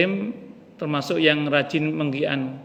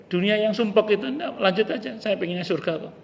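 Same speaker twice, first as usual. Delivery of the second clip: higher, eagerly waving off the world; pitched up, keen to go on; dying man eager for heaven; 6 semitones higher than usual. Acted. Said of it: "Kata yang mau mati".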